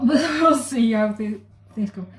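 laughing through the words; half-laughing, amused doubt. Real, not acted. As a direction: giggle while unsure how it will go. Laughs at her failing recipe.

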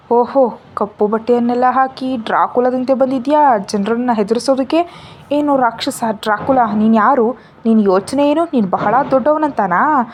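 loud, scornful tirade building up; angry taunting. Acted. Deeksha mocking Vikram as a Dracula, loud angry taunt. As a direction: tear into him with mocking fury.

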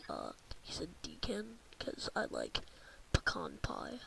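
whispered explanation. Real, not acted. Explains the name joke to listeners, whispering. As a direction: breathe it out as an aside.

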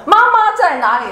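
put-on high, loud kid's call; be the kid back from school wanting mom; imitating a child yelling for mommy.

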